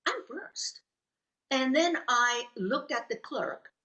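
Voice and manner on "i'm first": indignant inner protest. Retold or imitated. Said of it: "I thought to myself".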